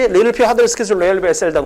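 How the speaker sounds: memorised list, rattled off; rapid-fire recitation. Shown as a demonstration. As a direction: reel the word list off by heart. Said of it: "그냥 버버버 하면 돼".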